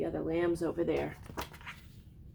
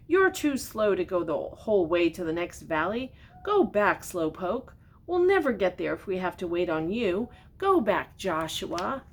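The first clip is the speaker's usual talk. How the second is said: mocking lambs; 2 semitones higher, 6 dB louder than usual. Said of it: "the others started laughing at him".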